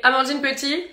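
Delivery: name then a loud, high shouted France; pageant introduction. Shown as a demonstration. Miss France practicing her Miss Universe stage introduction, shouting. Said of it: "and say".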